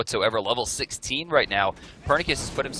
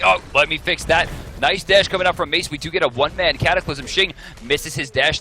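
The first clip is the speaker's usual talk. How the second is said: louder and higher as the fight erupts; excited play-by-play; 4 semitones higher, 4 dB louder than usual. Real, not acted. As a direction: jump on the play with energy.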